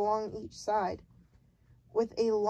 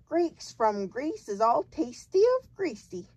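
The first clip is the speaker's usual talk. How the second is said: loud, higher giant voice; booming giant; 5 semitones higher, 5 dB louder than usual. A narrator's reading. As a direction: boom the pun. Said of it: "the giant said".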